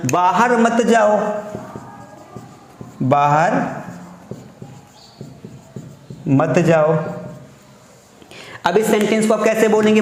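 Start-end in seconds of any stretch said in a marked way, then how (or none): 0.1-6.9 slow, split words; teacher modelling a prohibition; slow dictation. Shown as a demonstration. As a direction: break the command apart slowly. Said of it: "इस तरीके से आपने बोला".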